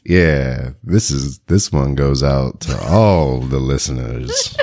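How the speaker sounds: slow, hammed-up dedication to listeners; playful bass rumble. Sick host dedicating one to all the listeners, mock bass rumble. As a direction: lean into the rumble, drawing the words out.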